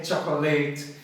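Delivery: "chocolate" ending like "late"; common mispronunciation. Shown as a demonstration. Teacher jokes about learners' mistake, "chocolate" mispronounced with LATE. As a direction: say "chocolate" wrongly as CHOCK-oh-LATE. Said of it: "se é chocolate ao leite".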